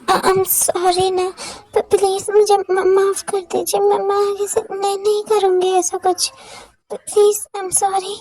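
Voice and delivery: lightly voiced girl, stuttering and pleading; nervous stammering girl. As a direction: beg for mercy, tripping over the words. Jimin begging forgiveness. (हल्की सी घबराई हुई लड़की, हकलाते हुए गिड़गिड़ाना)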